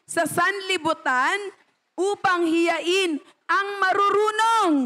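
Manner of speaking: slow, weighty reading of the verse; solemn scripture reading. Acted. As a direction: read it slowly like scripture. Reads scripture aloud. (mabagal at taimtim na pagbasa ng talata)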